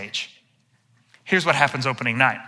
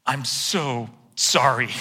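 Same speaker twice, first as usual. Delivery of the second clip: half-in-character apology; 4 semitones lower, slower than usual. Retold or imitated. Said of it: "sort of in character and sort of out of character".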